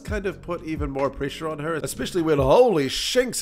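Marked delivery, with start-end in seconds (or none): 2.4-3.4 slow, stunned exclamation; drawn-out shocked outburst; surprised gasp. Real, not acted. Sudden shock at rare card.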